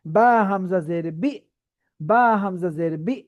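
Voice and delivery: "বা হামজা জের বি" slow, sound caught in the throat before "বি"; "বি" with a glottal catch, syllable by syllable; voice stopped at hamza. Shown as a demonstration. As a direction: stop the voice sharply in the throat on "বি", slowly. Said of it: "সবাই একটু practice করি আমার সাথে".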